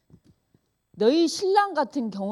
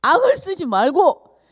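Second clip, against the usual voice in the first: slow, louder and higher, each syllable pressed; emphatic advice; 4 semitones higher, 6 dB louder, slower than usual. Retold or imitated. Advising a friend not to scream, slow and emphatic. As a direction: press the words out like a firm warning. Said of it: "너는 눈에 힘부터 빼라".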